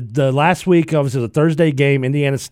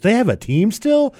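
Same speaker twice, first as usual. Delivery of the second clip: higher, slow, wide-eyed mom voice; mock clueless mom; 8 semitones higher, 3 dB louder, slower than usual. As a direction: play the oblivious mother, pitch up and drawn out. Mom voiced meeting Tim Brown.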